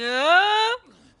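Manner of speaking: high loud burst of laughter. Real, not acted. Streamer laughing at game, high loud laugh. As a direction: crack up.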